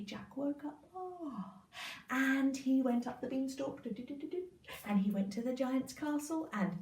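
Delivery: ordinary delivery, nothing marked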